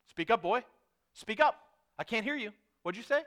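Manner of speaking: scolding Southern father, rising in pitch; hammed-up cross Southern daddy; angry Southern dad. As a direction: demand an answer in a put-on Southern voice. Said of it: "this is a Southern thing now".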